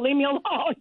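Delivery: laughing. Retold or imitated. Retelling her own retort.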